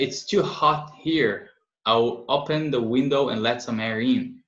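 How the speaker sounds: slow, careful model sentence read to the class. Shown as a demonstration. Teacher reading slowly to learners, clear and unhurried. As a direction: read it out slowly for students to copy. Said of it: "slow teacher model reading".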